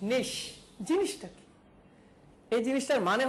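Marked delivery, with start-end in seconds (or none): 0.1-0.3 নিশ alone, closed with a long "sh"; correct pronunciation. Shown as a demonstration. Teacher repeating the pronunciation for students, নিশ with final "sh". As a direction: pronounce নিশ clearly as "neesh". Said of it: "এটার উচ্চারণ হবে".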